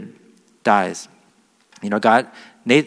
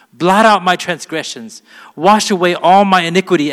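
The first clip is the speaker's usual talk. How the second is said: scripture reading; 2 semitones higher than usual. Acted. Reads Psalm 51 aloud.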